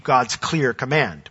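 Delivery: emphasis on "clear"; "clear" picked out from the words around it; stress on CLEAR. Real, not acted. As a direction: lean on the word "clear". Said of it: "with emphasis on the word clear".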